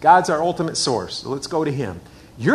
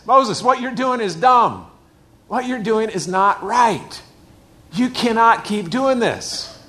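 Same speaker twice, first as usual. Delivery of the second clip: slow, higher and louder, firm; firm rebuke; 5 semitones higher, 4 dB louder, slower than usual. Retold or imitated. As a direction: lay it down slowly like a stern elder. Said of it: "the Bible actually says it like this".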